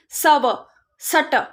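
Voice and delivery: सव, सट broken apart, very slow and laboured; imitating a child's mistake. Teacher imitating a child's wrong reading, very slow. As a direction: sound it out like a struggling child. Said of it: "बच्चे वरना कैसे पढ़ते हैं मैं आपको बताती हूँ".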